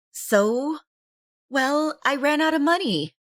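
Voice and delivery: sheepish younger sister. Acted.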